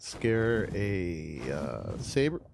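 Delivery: hiccuping mid-sentence; words broken by a hiccup. Real, not acted. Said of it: "I got the hiccups".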